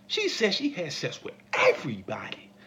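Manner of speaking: hushed scandalized whisper; mock secretive whisper. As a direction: lean in and whisper the gossip.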